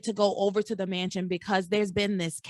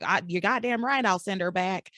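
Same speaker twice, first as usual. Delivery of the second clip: redneck drawl; 2 semitones lower than usual. Retold or imitated. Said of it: "why he's a redneck now".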